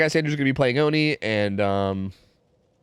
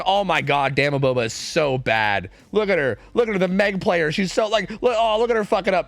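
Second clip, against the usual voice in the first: higher, hammed-up mocking of a bad player; mock trash talk; 4 semitones higher than usual. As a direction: jeer at her like a heckler. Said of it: "I'm gonna be like".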